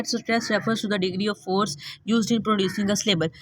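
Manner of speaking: reads the English definition aloud, slowly; careful read-aloud of the book text; slow, deliberate reading from the text; slow textbook reading. Acted.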